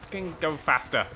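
panting between words; breathless from pedalling; out of breath. Real, not acted. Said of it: "I'm actually out of breath".

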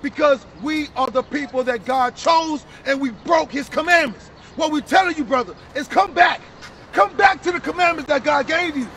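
forceful, emphatic preaching; street preaching. Real, not acted. Preacher to brother about Israel's promises, forceful preaching.

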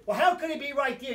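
rattled. Retold or imitated. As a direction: throw the question back, quick and agitated. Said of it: "here's how rattled he is".

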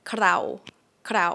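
"เครา" with K running into a tapped r; consonant cluster. Shown as a demonstration. Teacher models a close-sounding word, clustered "เครา". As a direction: say "เครา" short, with the two consonants joined. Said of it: "with cluster".

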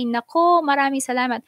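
flattered and grateful; real delighted thanks; excited thanks. Real, not acted. Thanking viewer for praise.

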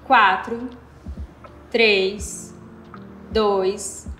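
calm, unhurried breathing guidance with long pauses; guided meditation. Real, not acted. Instructor guiding listeners through square breathing, calm meditation voice. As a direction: lead them gently through each breath, counting evenly.

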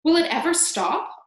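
high, loud, amazed question; excited shout. A narrator's reading. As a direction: shout it out in wonder. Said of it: "Aunt Sponge shouted".

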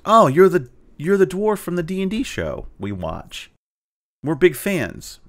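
high, eager recognizing blurt; excited fan. Retold or imitated. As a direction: starstruck dad gushing. Quoting excited dad at gas.

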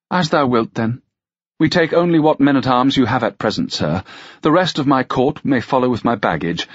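lightly voiced lady giving orders; imperious noblewoman. Narrator voices the lady's orders.

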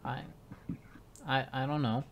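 soft, halting stammer; understated nervous mumbling reply; timid uncertainty. Acted. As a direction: hesitate with small pauses, unsure of yourself. Timid girl answers her master.

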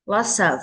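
"Lots of" run together as one word; linked sounds. Shown as a demonstration. Teacher shows children linking, "Lots of" joined up. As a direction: carry the s of "Lots of" into the vowel. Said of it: "Các con có thể nối âm qua".

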